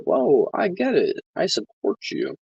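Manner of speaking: high, slow mock voice of a new fan; imitating supportive stranger. Imagined supporter at his protest sign, high mock voice. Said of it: "come up to me and be like".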